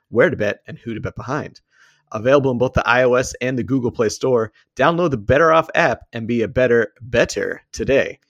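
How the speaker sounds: upbeat sponsor read voice. Acted. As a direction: read it like a podcast ad.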